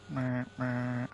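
low, soft honking noise; imitated horn. Driver playing at the horn, softly imitated honks. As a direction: mimic a horn quietly, two honks. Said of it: "Can I do horn as well?".

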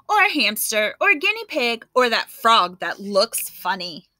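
lightly voiced fussy girl listing what she won't have; picky child. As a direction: Louise in the pet store, refusing every pet. Louise rejecting pets in store.

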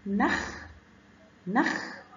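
نخ ending on a held kh, no vowel after; stop on sukun. Shown as a demonstration. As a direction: stop on the خ of نخ and hold it. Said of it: "بنقف عند الحرف ونمسكه".

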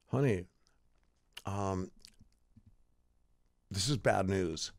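low, halting bad-news delivery; solemn dad. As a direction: break it gravely, with long pauses between phrases. Dad jokingly breaks grave news.

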